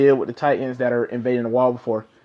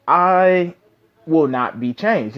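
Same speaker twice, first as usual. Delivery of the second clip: slow, spaced-out retold vow; mildly defiant, pausing between words; retold firm refusal; slower than usual. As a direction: quote it slowly, digging in. Retelling Eren's defiant refusal to Zeke.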